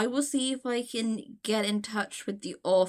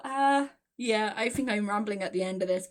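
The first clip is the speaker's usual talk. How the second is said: normal talking voice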